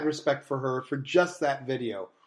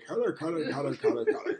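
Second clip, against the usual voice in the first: subtle kitty call; 7 dB quieter than usual. Shown as a demonstration. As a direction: hush the cat call down. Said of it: "need to be more subtle".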